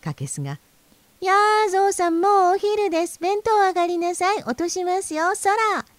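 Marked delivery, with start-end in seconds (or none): 1.2-5.9 teasing jay. A narrator's reading. Jay teases the fat man.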